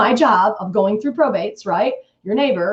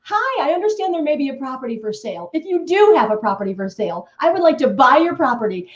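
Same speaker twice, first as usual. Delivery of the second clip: upbeat letter read; 5 semitones higher than usual. Shown as a demonstration. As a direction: sell the offer cheerfully. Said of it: "This is my letter".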